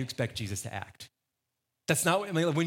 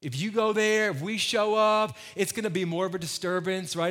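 anxious persuasion; 4 semitones higher than usual. Acted. Disciples arguing against the trip.

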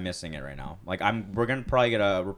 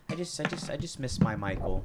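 wistful mom; 3 dB quieter than usual. Retold or imitated. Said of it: "she started saying".

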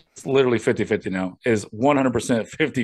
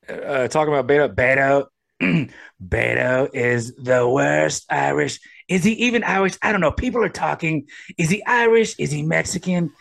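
light Trump impression, boastful and rambling; imitating Trump; 2 semitones higher than usual. Podcaster asked to do a voice, lightly imitating Trump. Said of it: "it's Trump".

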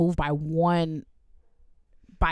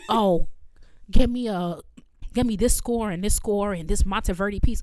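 mock diva demands; 3 dB louder than usual. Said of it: "Girl, what?".

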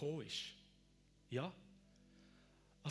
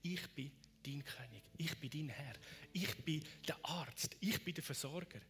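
unhurried words of comfort, each one set apart; reassuring promise. Acted. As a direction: give a calm, steady promise. Speaks as Jesus, reassuring promise.

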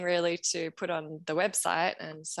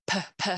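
two short popped P sounds; puh, puh mic pops; popping mic sounds; 2 semitones higher than usual. Shown as a demonstration. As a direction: imitate plosives popping on a microphone. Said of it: "I would get really bad".

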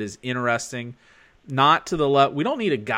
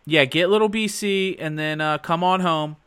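calm, higher-pitched husband on the phone; 4 semitones higher than usual. Real, not acted. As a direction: keep it real calm for your wife. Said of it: "I like your husband voice".

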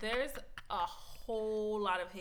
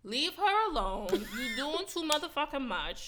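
stern and slow, louder; slow scolding; 4 semitones higher, 5 dB louder, slower than usual. Real, not acted. Telling off her friend's hater, slow and stern. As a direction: lay down the law, word by word.

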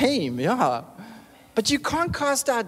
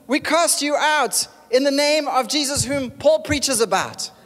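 loud, high mock exorcist command; commanding shout; 6 semitones higher, 3 dB louder than usual. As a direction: bellow the command like a showy exorcist.

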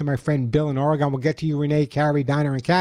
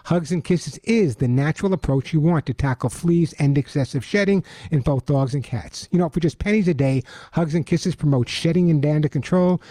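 upbeat radio ad read; chipper 1950s ad; 3 semitones higher than usual. Acted. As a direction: sell it bright and eager. Host reads his sponsor ad.

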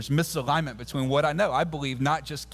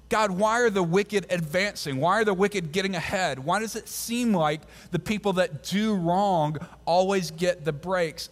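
frustrated plea; 3 semitones higher than usual. Retold or imitated. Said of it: "David's writing the psalm frustrated".

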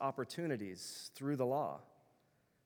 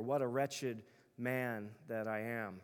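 wretched lament; slower than usual. Retold or imitated. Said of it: "he says".

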